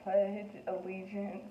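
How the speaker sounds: shaky and slow, short of breath; trembling voice, out of breath. Retold or imitated. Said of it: "my voice is just shaking".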